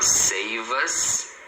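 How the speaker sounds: "save us" drawn out as one word; linked words. Shown as a demonstration. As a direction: SAVE US joined as "say-vus". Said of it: "Então, aqui, ó".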